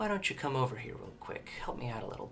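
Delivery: character voice in a whisper. A character speaks straight into the player's head, as Vicious whispering. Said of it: "you hear in a whisper in your head".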